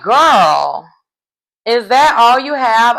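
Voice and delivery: loud, drawn-out incredulous comeback; mock-exasperated challenge. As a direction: call her out in disbelief. Mock exasperated reply to castmate.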